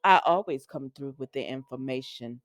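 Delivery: low, measured character voice; second impersonation attempt. Recapper retrying the character's line, low impersonation. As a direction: drop the pitch and imitate her evenly. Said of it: "I'm not sounding like her".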